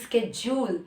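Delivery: schedule starting with a "sk" sound; American-style "schedule" with hard K; American pronunciation. Shown as a demonstration. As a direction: say "schedule" as sked-jool. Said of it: "in the American accent".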